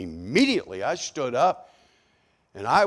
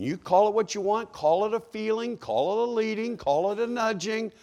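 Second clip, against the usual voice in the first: raised pitch; 8 semitones higher than usual. Real, not acted. Preacher lists names in raised pitch.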